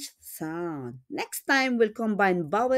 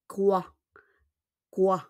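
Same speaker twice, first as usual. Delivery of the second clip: whisper. Shown as a demonstration. Repeat of model word.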